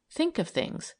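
high-pitched, energetic urging. A narrator's reading. Milly urging the man to plan, energetic and high. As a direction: spur him on briskly. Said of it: "she said energetically".

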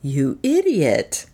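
mild humble tone. A narrator's reading. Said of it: "speaking in the most humble voice".

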